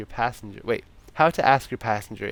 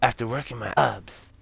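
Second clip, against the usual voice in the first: lightly put-on European accent, tipsy; drunk European accent; 3 semitones higher than usual. Drunk Santa confiding in the driver, muddled European accent. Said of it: "I'm sorry for this accent".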